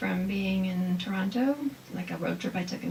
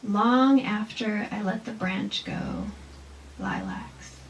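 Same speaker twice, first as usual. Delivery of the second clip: slow haiku reading, fading off; poem reading; slower than usual. Shown as a demonstration. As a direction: read slowly, let the last word fall away. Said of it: "the next one is smell".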